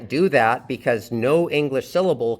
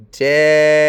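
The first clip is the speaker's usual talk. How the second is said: Daryl with a long, loud DA; stressed first syllable; 8 dB louder than usual. Shown as a demonstration. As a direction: hold the first syllable of Daryl loud, then ROL apart. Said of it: "beginning with a stressed syllable".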